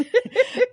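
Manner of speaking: loud high-pitched giggle; high laugh. Real, not acted. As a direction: burst into a giggle. Laughing at own story.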